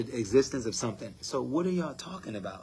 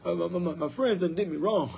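mock complaining believer; 6 semitones higher than usual. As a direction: ham up a griping churchgoer listing woes. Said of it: "So when you're saying".

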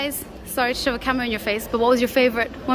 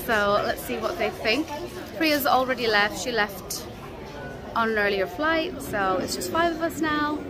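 muffled behind a face mask; talking through a mask; 6 dB quieter than usual. Real, not acted. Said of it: "quite hot in this mask".

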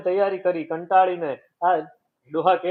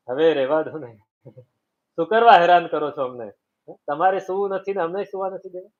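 irritated scolding; 3 dB louder than usual. Acted. Family scolding again.

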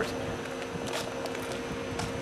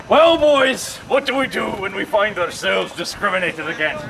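rallying pirate captain with a put-on accent; ridiculous pirate accent; 2 semitones lower than usual. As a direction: address the crew in a hammy pirate accent. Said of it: "with that ridiculous accent".

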